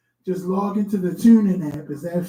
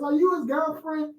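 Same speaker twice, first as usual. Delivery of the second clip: mock comedian; 8 semitones higher, 6 dB quieter than usual. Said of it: "He says".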